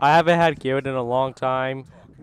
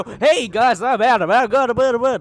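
mocking imitation; 6 semitones higher, 3 dB louder than usual. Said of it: "No, that's not a game show".

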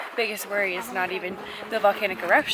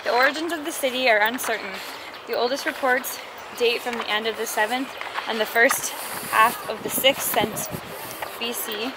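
breathless reading, panting between phrases; reading aloud while winded; out of breath; 2 semitones higher than usual. Real, not acted. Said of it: "I'm out of breath from climbing".

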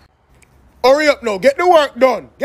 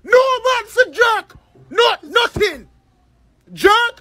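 indignant shout; 6 semitones higher, slower than usual. Acted. Uncle rejects jerk chicken.

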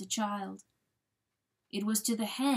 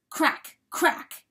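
sharp cracks; 7 semitones higher, 6 dB louder than usual. A narrator's reading. Narrator voices hoof striking ice.

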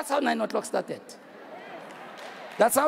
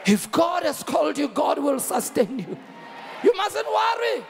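emphatic preaching. Real, not acted. Preacher assuring believers God will sustain them, emphatic preaching.

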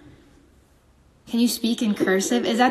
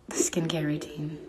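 whisper; 6 semitones lower, 9 dB quieter than usual. Real, not acted. Hushed aside.

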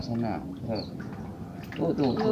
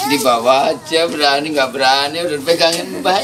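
urging loudly; 7 dB louder than usual. Real, not acted. Grandparent coaxing a child to go down, urging loudly. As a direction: call it out over some distance.

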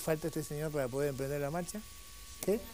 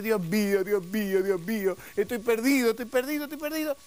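loud acted plea climbing higher; desperate pleading; 5 semitones higher, 5 dB louder than usual. Lost sailor on his knees to God, acted pleading. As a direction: plead and wail, hammed-up despair. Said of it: "este hombre se arrodilla y dice".

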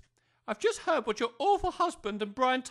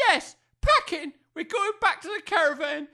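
angry retort; 3 semitones higher, 5 dB louder than usual. Acted. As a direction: throw it back at him. Wife snaps at husband.

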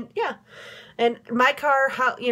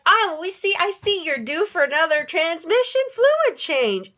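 mechanic's voice; 6 semitones higher than usual. Retold or imitated. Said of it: "And he's like".

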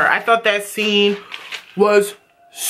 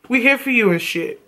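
1 sarcastic; 5 semitones lower than usual. Real, not acted. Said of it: "that sounds, like, really sarcastic".

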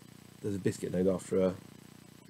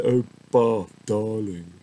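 a light put-on posh drawl on Bath, louder; kids' mock posh Bath; 4 dB louder, slower than usual. Lightly hammed-up posh "Bath, darling". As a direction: kids teasing dad about how he says bath, mock posh voice. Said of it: "My kids take the mick out of how I say bath".

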